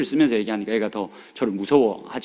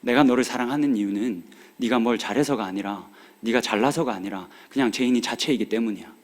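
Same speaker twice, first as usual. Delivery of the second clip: tender to daughter. Retold or imitated. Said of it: "얘 손을 잡고 말했습니다".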